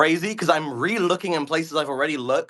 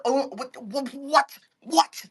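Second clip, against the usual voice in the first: more baffled every time; rising disbelief; 8 semitones higher, slower than usual. Real, not acted. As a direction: pitch climbing with each what. Rising panic, repeated what.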